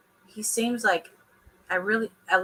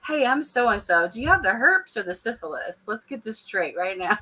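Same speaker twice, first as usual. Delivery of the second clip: mock introduction. Mocking how the cast member approached someone. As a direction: play it like a casual hello. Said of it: "do you walk up to somebody".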